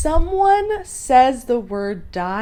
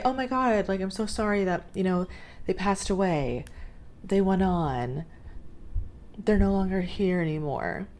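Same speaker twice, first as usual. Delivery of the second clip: softer, hesitant sympathy; gentle condolence; 5 dB quieter than usual. Acted. To a grieving friend who lost family, soft careful sympathy. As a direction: offer condolences softly and carefully.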